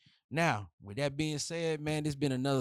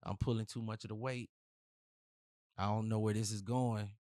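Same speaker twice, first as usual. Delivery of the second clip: imitating a fed-up girlfriend; 4 semitones lower, 6 dB quieter than usual. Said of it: "That's what they gonna say".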